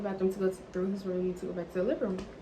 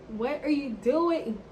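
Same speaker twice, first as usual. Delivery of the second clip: drawn-out protest; 3 semitones higher, slower than usual. Retold or imitated. Acting escalating protest at his hand.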